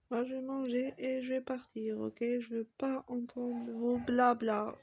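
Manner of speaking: little sister angrily refusing to listen; angry outburst. Acted. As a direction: shove them away with your voice.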